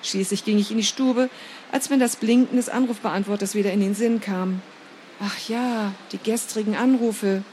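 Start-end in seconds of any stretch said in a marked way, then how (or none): 5.2-7.4 annoyed. Acted. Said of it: "stieß ich genervt hervor".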